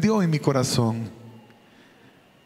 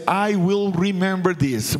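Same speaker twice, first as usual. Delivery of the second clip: stern warning; slower than usual. Retold or imitated. Father warns son in English.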